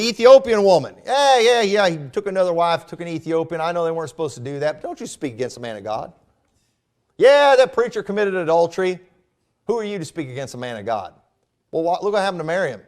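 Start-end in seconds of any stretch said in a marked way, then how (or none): 1.1-6.1 mock Southern accent. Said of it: "when I'm using my Southern accent". 7.2-11.1 mock Southern accent. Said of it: "when I'm using my Southern accent".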